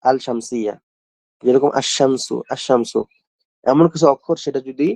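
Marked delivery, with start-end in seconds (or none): 1.8-2.4 "আশ-শামসু" with no l and a held sh; silent lam, doubled sh. Shown as a demonstration. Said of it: "লামটা উচ্চারণ না হয়ে". 2.5-3.0 "আশ-শামসু" with no l and a held sh; silent lam, doubled sh. Shown as a demonstration. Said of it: "লামটা উচ্চারণ না হয়ে".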